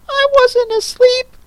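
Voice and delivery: very high squeaky drowsy protest; hoarse feeble squirrel. Acted. Squirrel denying he dozed, high squeak. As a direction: squeak it out, half asleep. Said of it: "in a hoarse, feeble voice".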